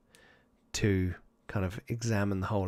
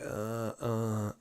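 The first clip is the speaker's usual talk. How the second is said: groaning; 7 dB quieter than usual. Acted. Boy stuck down the crevasse, faint groaning. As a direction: groan faintly, half-conscious. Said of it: "kind of groaning".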